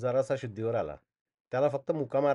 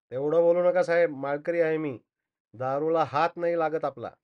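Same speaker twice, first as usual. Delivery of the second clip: indignant protest; 3 semitones higher, 5 dB louder than usual. Acted. Truck driver denying to accusers that he drinks, indignant. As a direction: protest your innocence with offended force.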